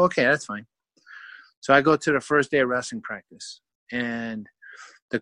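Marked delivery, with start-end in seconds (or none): 0.0-0.7 whispered okay. Retold or imitated. Answering dad's conditions.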